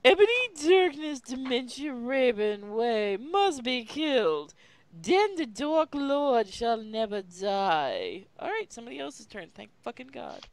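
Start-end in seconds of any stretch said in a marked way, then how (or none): 0.0-8.3 dramatic recital. Acted.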